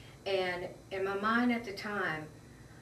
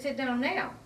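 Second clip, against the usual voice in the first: raised, louder imitated command; retold sharp order; 5 semitones higher, 5 dB louder than usual. Officer ordering her to sit, raised command. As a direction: push it out as an impatient order.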